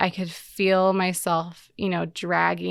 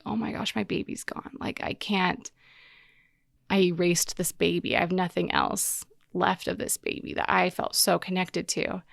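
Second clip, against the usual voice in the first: retold sobbing. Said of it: "started bawling like a baby".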